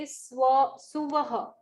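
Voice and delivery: "Suvaha" split into three syllables su-va-ha; wrong Suvaha. Shown as a demonstration. Teacher showing the wrong way, "Suvaha" in three syllables. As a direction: say "Suvaha" as the common mistake, su-va-ha. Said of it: "Then they say".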